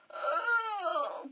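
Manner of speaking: high, drawn-out stretch noise; long stretchy oh; stretching groan. Acted. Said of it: "does a big stretch up".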